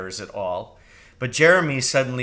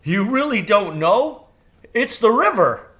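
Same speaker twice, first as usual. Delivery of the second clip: higher, louder bird voice; amazed crow; 9 semitones higher, 6 dB louder than usual. A narrator's reading. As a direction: tease her gently in disbelief. Crow surprised she doesn't know.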